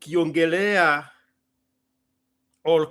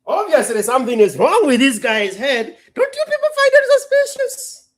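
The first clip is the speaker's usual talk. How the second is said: higher, louder onlooker voice; mock onlooker; 7 semitones higher, 8 dB louder than usual. An onlooker talking about him, higher and louder. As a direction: gossip about yourself.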